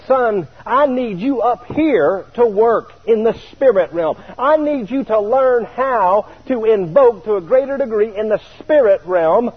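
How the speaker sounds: slow solemn Jesus voice; Jesus speaking. Retold or imitated. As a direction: speak slowly as a gentle divine voice.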